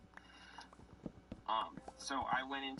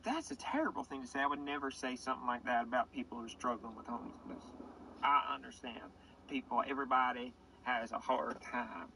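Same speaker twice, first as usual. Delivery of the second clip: a hint of prissy outrage; mock indignant. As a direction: play it as a shocked, prissy objection. Comic indignant self-quote.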